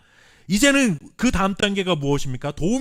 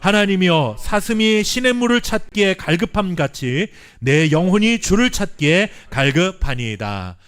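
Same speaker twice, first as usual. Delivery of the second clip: louder, slow and measured reading in unison; scripture read aloud together; 4 dB louder than usual. Real, not acted. Pastor leading congregation in reading Psalm, slow loud unison reading. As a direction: proclaim the psalm with the congregation, slowly. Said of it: "함께 읽겠습니다".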